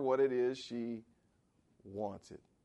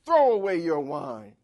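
louder stern command; demanding; 4 semitones higher, 9 dB louder than usual. Retold or imitated. Eli orders the woman to drop her wine, louder and stern. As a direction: bark it as an order. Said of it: "he demanded".

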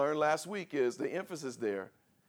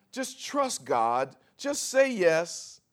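slow; 5 semitones higher, 7 dB louder, much slower than usual. Acted. Pastor urging congregation.

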